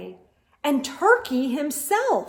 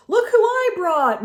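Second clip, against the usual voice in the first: proud announcing; 8 semitones higher, 7 dB louder than usual. A narrator's reading. Moose presenting guests.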